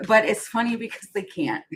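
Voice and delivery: real amused giggle at the end; laughing. Real, not acted. Card reader finding the cards funny, laughing. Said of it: "I'm laughing because".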